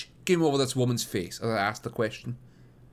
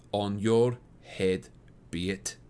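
bitter cry; 4 semitones lower, slower than usual. A narrator's reading. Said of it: "cried her mother".

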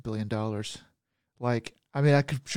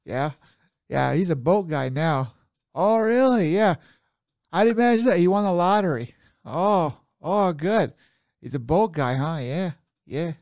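hammed-up Upper Michigan accent, higher and louder; Yooper accent; 4 semitones higher, 4 dB louder than usual. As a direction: play a loud Midwest Yooper neighbor. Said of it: "What the accent is that".

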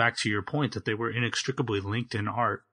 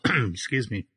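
throat-clearing through a swallow of tea; choking on tea. Real, not acted. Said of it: "choking on my tea".

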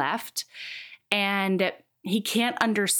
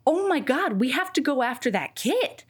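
higher-pitched retold outrage; mock urgent alarm; 4 semitones higher than usual. Heroine urging him to go after his kid, mildly acted alarm. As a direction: lightly act her alarm, pitch lifted.

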